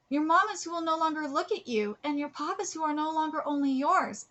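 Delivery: heartfelt letter read aloud. Acted. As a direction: read the letter out, a little lifted from chat.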